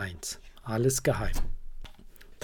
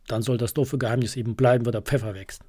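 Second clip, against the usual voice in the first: fast, mildly grumpy scolding; a touch of huffy scolding, rattled off fast; faster than usual. Acted. Little raven giving up on the secret, mild fast scold. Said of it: "schimpft Socke".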